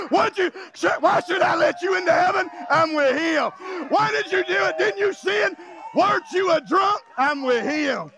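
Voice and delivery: high, shouted interrogation; accusing gatekeeper. Acted. Preacher plays the accuser grilling a believer at heaven's gate, shouted. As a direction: fire the questions at him.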